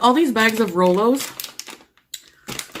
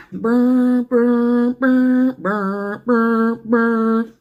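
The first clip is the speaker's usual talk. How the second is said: imitated soundtrack buzz; 3 semitones higher, much slower than usual. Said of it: "they use parts of the soundtrack".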